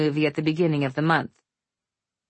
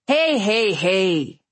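firm, sharp warning; 4 semitones higher, 3 dB louder, much slower than usual. Acted. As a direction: cut in sharply like a stern dad. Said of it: "Nate said sharply".

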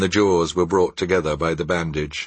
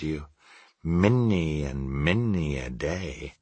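solemn ghost. Acted. Ghost speaks solemnly to Scrooge.

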